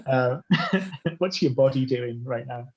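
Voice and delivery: calm grounding exercise, lightly played; mock therapist check-in. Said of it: "is this your therapist voice?".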